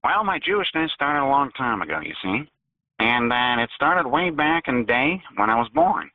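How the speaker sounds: Looney Tunes voice. Acted. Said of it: "you sound like a Looney Tunes character".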